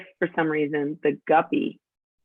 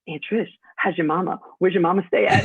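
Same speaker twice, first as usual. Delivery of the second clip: teasing Southern. Retold or imitated. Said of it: "every time I see my niece, she's like".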